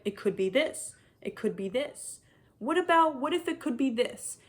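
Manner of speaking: vague, musing mock quote, rising at each end; mocking the author. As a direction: parody the author's endless maybes. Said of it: "being like".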